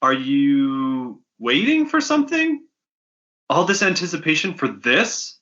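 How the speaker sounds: bossy dealer hurrying the slackers; brash fence woman. Acted. Fence Wathern hustles the bounty hunters, impatient brash voice.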